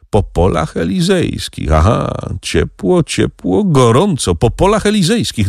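high-pitched, animated exclaiming; acted rising excitement; excited echo. A narrator's reading. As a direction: repeat it in a high, teasing sing-out. Figure gleefully echoes the other's words.

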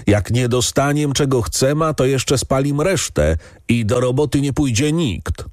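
a servant calls out a threat to the count; calling out. A narrator's reading. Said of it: "Jeden głos zaczął wołać".

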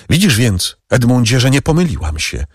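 wyższy, błagalny okrzyk kobiety; zawołaj do niego z rozpaczą; wołająca Mercedes. Acted. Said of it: "zawołała Mercedes". (Mercedes woła do Edmunda, wyżej i z naciskiem)

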